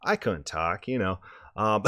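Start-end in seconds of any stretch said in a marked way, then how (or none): 0.0-0.9 croaky lost voice, strained; hoarse voice. Retold or imitated. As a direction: rasp it out like a sore throat. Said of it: "the terrible voice".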